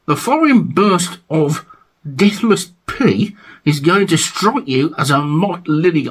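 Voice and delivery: measured read-aloud of album blurb; reading sleeve notes. Acted. Vlogger reading album notes to viewers, declaimed read-aloud.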